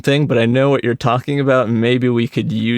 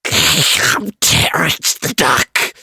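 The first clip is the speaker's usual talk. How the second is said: slow, sweet, higher cartoon girl voice; cute anime girl voice; 4 semitones higher, slower than usual. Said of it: "if you were gonna do a cute anime girl voice".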